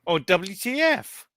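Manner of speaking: drawn-out "What the fuck?". Shown as a demonstration. Sarcastic friend showing how he'd have typed it, slow and baffled. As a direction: spell it out slowly, baffled. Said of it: "I would've just typed".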